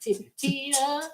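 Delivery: high, halting stammer on "Tina"; stuttered first word. Retold or imitated. Recapping Jamie's first words, stuttered high "Ti-, Tina". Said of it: "Jamie says her first words".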